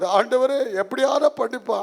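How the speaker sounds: hammed-up plea to God, crying out on the address; mock tearful prayer. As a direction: act out a tearful, begging prayer. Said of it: "ಹತ್ಕೊಂಡು pray".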